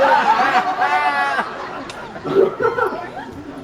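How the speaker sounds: high, drawn-out giggling fit; schoolgirl giggle. Real, not acted. Performer losing it during the blindfold bit, helpless giggling. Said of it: "giggling like a little schoolgirl".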